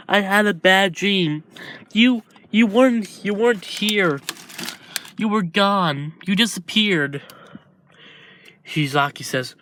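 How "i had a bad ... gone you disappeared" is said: put-on high, upset little boy just woken from a nightmare; tearful child voice. Little brother to Shizaki after a nightmare, high tearful voice. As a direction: sniffly kid telling his brother he vanished.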